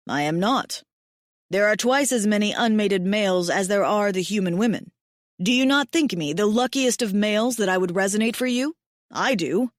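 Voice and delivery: a hint of a devoted big mate; tender alien mate. Mate protests warmly.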